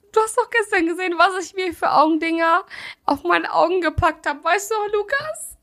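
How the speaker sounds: high, half-crying laugh; laughing so hard it sounds like crying; teary laughing voice. Real, not acted. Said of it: "Sandra, weinst du gerade?".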